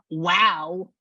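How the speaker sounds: mildly sarcastic, drawn-out wow. Retold or imitated. Spirit teasing her about his sore knees, mildly sarcastic. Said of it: "with that sarcasm".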